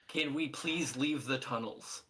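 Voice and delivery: slow, emphatic pleading; exasperated plea. Acted. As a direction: plead wearily, leaning on each word. Exasperated captive pleads to leave.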